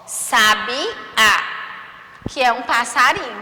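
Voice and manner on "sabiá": "Sabiá" with a strong, open final á; stressed final á. Shown as a demonstration. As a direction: land hard on the á of "Sabiá". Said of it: "o A vai ficar mais forte". ("Sabiá" com o "á" final forte)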